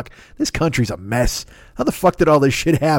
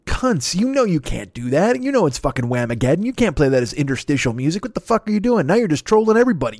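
mock angry rant; 5 semitones higher than usual. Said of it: "And I'm like".

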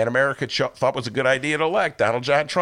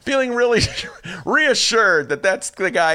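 sarcastic; 6 semitones higher, 5 dB louder than usual. Real, not acted. Sarcastic praise of Democrats.

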